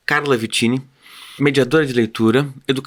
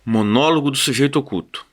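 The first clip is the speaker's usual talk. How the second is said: deliberate literary reading with falling cadences; chronicle reading. Acted. Reader opens the hidden subject's monologue, deliberate chronicle reading. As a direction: announce each phrase, then pause.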